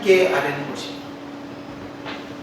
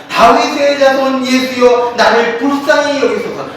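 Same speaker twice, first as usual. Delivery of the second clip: crying out to Jesus; 3 dB louder than usual. Retold or imitated. Blind beggar calling to passing Jesus, mild mock cry. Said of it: "막 소리쳐 외-, 외쳤습니다".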